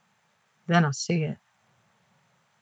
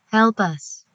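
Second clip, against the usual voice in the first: stiff synthesized voice, slightly raised; stilted voice; 4 semitones higher than usual. Acted. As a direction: speak like a halting voice synthesizer. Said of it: "Same stilted voice".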